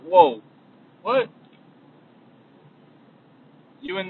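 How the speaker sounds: high, excited disbelieving voice of a younger self; stunned kid firing off questions; younger self, amazed. Retold or imitated. Past self from five years ago, stunned at his life, high and excited. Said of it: "they'd be like".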